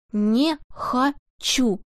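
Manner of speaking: yelling. Acted. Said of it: "буквально орал на".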